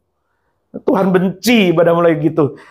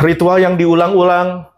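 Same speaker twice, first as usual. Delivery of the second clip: sighed, lower and slow; weary sigh; 4 semitones lower, slower than usual. Shown as a demonstration. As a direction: Ritual yang diulang-ulang said tired, dragging. (pelan dan lelah dengan desah)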